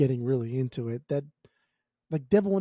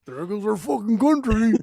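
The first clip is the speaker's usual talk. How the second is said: high, hammed-up mock lament; devastated relatives; 7 semitones higher, 3 dB louder than usual. Podcaster mimics his dad's family on election night, mock devastated. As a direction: imitate a relative wailing over a lost election.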